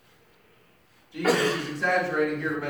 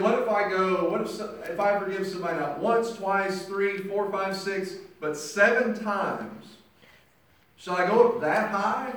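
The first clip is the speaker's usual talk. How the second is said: rising, louder, incredulous voicing of Peter; Peter bargaining; 4 semitones higher, 5 dB louder than usual. Peter asking Jesus how often to forgive, mounting disbelief. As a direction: stretch out the count, pushing higher and louder.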